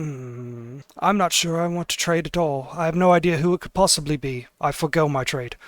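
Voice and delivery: hushed, hesitant noble; Valo voice. Acted. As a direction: mull it over coyly.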